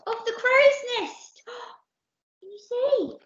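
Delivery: high, wide-eyed storybook asides; wondering storyteller. A narrator's reading. Storyteller wonders with listeners what is happening, high and curious. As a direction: read it high, full of wonder.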